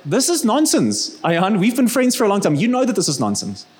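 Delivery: imitating Dawkins' British accent scoffing at her. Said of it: "in his very fine British accent".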